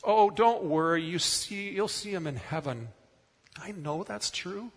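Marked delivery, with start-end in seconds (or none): 0.0-2.9 mock consolation. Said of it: "if someone says to me or my family".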